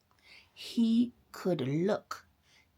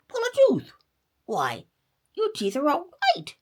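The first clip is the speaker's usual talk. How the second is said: much higher, louder startled doctor; astonished cry; 10 semitones higher, 6 dB louder than usual. A narrator's reading. Doctor cries out in surprise, high and loud. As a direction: blurt it out in disbelief. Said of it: "cried Doctor Possum".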